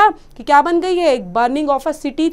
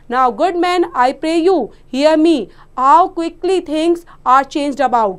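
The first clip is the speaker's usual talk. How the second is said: slow, deliberate classroom reading; story read aloud; much slower than usual. Acted. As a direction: read each phrase slowly and distinctly to children. (बच्चों के लिए धीमा कहानी-पाठ)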